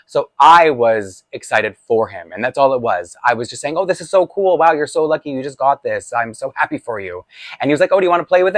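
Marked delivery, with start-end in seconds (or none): 3.8-7.2 high, gushing praise for the toy; mock excited gushing. Boy praising cousin's new toy, excitedly gushing. 7.9-8.6 put-on higher, eager kid offering a turn; cousin offering. Cousin offering his toy, brightly eager.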